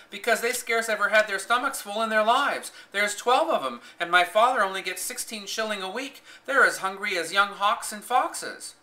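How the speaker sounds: pleading her family's hunger, animated; lively Yorkshire maid. A narrator's reading. Maid telling of her hungry siblings, earnest Yorkshire.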